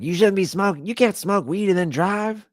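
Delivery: high-pitched mock lecture from mom; imitating scolding mom. Mom scolding her son in a dream, mock nagging. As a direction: nag him like a mother catching her teen. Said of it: "she yelled at me in my dream".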